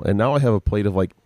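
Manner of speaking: talking while eating; words round a bite of food; mouth full. Real, not acted. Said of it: "with your mouth full".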